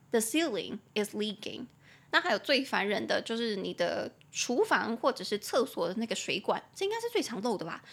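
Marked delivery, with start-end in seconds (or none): 0.1-1.6 slower, clearer repeat. Shown as a demonstration. Teacher repeats the sentence slowly for students to copy. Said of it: "你就可以说".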